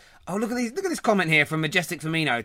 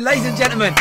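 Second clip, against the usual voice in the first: announcer voice; 7 semitones higher, 7 dB louder than usual. Pretend. Host announces to listeners.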